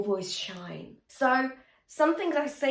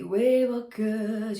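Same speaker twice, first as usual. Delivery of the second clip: breathy demo; slower than usual. Shown as a demonstration. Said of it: "it's quite breathy".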